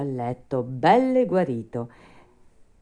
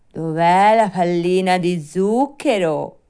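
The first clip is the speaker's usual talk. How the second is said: louder, higher puppet voice asking for a treat; eager Pinocchio; 5 semitones higher, 8 dB louder than usual. Acted. Puppet asks the fairy for sugar, eager. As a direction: demand it like an impatient child-puppet.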